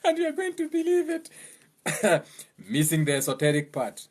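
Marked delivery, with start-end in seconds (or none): 0.1-1.3 laughing. Real, not acted. Laughing at Bible story.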